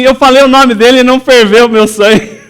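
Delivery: high, loud, vibrant voice; thrilled retelling. Retold or imitated. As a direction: share the news bursting with joy. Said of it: "Ela veio vibrando assim". (vibrando de alegria)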